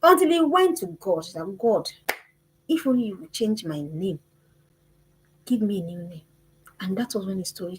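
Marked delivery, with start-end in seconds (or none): 1.6-6.2 soft, lower prayer to God; quiet plea to God. Retold or imitated. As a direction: pray it softly, humbly. Boy praying to God.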